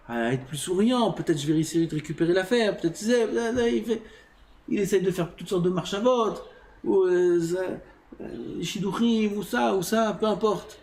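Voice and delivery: high-pitched, rambling inner monologue; mock anxious scheming. Man plotting to win back the deal, mock fretting.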